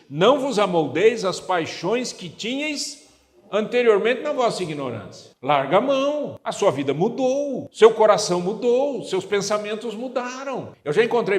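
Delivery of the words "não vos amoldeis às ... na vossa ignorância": solemn scripture reading. Real, not acted. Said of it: "Então ele diz".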